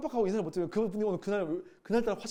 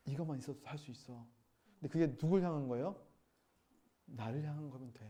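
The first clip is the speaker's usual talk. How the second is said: softer, lower, gentle voice of the Lord; tender reassurance; 4 semitones lower, 7 dB quieter than usual. Retold or imitated. The Lord comforting weak disciples, tender and soft. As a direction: reassure them gently, almost hushed.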